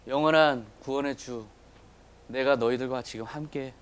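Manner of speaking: low, measured voice of Jesus, lightly acted; solemn assurance. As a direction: speak with calm, unhurried authority. Voices Jesus speaking to disciples.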